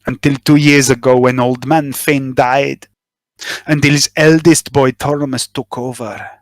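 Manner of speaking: a lightly voiced nervous informant, spilling his story; nervous smuggler confessing. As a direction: talk like a worried smuggler who finally confesses. GM voices smuggler NPC monologue.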